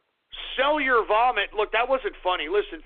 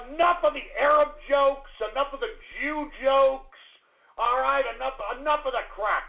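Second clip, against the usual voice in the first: higher, firm, laying down the law; lecturing the chat to stop; stern warning; 5 semitones higher than usual. Real, not acted. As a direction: put your foot down. Scolding trolls in chat.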